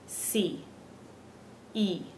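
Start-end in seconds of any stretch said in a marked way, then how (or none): 1.7-2.0 E as one pure "ee"; Spanish I vowel. Shown as a demonstration. Teacher showing how they pronounce I, E said as "ee". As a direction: say E as "ee", as in see. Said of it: "is the way that they pronounce their I".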